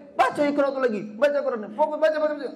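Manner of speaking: imitating a parent who only nags; pushy nagging parent. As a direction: hammer the kid with baca, baca, baca. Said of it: "cuman modal ngegas-ngegas".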